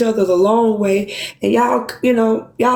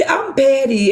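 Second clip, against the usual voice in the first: outburst. Real, not acted. Emotional self-admission.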